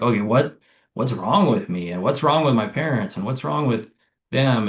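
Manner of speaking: a hint of a worried student; anxious questioning. Therapist mocks her younger self, mildly frantic. Therapists asking what's wrong.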